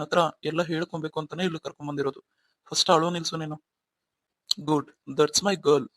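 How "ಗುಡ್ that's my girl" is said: slow, soothing praise; husband slowly soothing his wife after she stops crying; gentle praise. Acted. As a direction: coax her gently.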